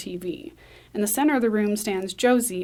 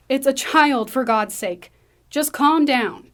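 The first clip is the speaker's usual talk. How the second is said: exasperated plea; 4 semitones higher, 4 dB louder than usual. Acted. Susan pleads with armed agents.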